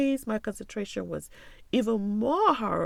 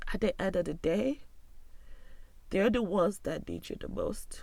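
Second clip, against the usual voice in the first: breathy whisper, voice catching; almost whisper it, holding back tears; 3 dB quieter than usual. Real, not acted. Pleading with listeners to check on friends, in a whisper.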